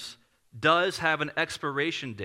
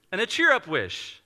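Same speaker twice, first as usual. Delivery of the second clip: higher-pitched story-time lilt; picture-book reading; 4 semitones higher, 4 dB louder than usual. Retold or imitated. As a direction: read it out as to a child. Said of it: "Let me read it to you".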